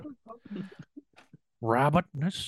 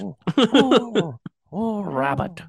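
gentle honey-loving bear voice; Winnie the Pooh voice; 6 semitones higher, much slower than usual. Retold or imitated. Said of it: "Oh, damn, you got it".

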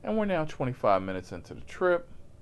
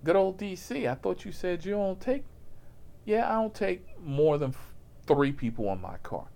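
high, light passenger voice; 10 semitones higher than usual. Retold or imitated. The driver mimics the small passenger, high and eager.

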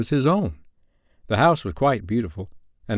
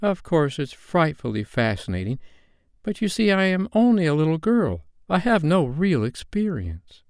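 demur sweetly in a raised pitch, slowing at the end; Wendy's voice; 7 semitones higher than usual. A narrator's reading. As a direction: modest little girl, high and hesitant. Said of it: "Wendy said".

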